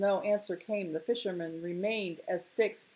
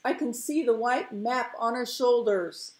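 higher, excited report; excited calling out; 5 semitones higher, 4 dB louder than usual. Acted. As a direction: call the sighting to the crowd. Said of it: "he screamed at last".

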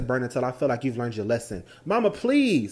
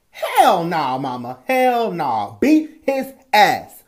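louder, higher hype; excited egging on; 5 semitones higher, 9 dB louder, much slower than usual. Acted. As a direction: egg her on, loving it. Brothers egging mother on.

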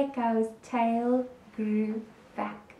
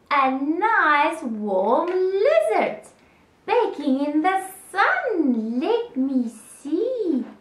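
a slow, slightly higher snake voice; gloating snake; 5 semitones higher, 3 dB louder, slower than usual. Acted. Snake eyeing a lizard baking in the sun, gloating. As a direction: savour each word at leisure. Hungry snake eyes its prey.

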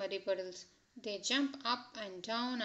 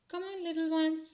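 granny calling; 6 semitones higher, 6 dB louder than usual. A narrator's reading. Grandmother calls children to bed.

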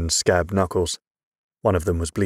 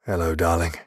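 slightly softened. A narrator's reading. Father greeting his favourite child, slightly softened. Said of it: "Father's voice softened just a little".

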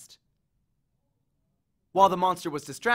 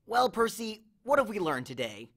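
understated murmur, higher opening; 5 semitones higher than usual. A narrator's reading. Grover hiding with Percy, murmuring. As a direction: murmur it like a teacher's question. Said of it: "Grover murmured".

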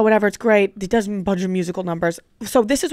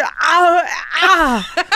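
raised, tongue-tied blurted noise; fail to form any word; garbled second attempt; 7 semitones higher, 3 dB louder than usual. Storyteller imitating second failed reply, garbled yelp. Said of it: "try to say something else".

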